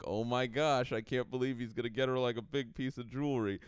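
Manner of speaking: mock girlfriends gossiping in excitement; a touch of breathless sitcom excitement; gushing friends. Girlfriend's friends voiced in a mock plot.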